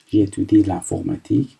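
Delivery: reading each French word out slowly. Shown as a demonstration. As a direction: read it slowly for the class. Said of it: "من به این صورت شروع کردم".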